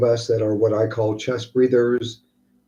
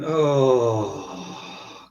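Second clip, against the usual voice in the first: exhaling sigh. Shown as a demonstration.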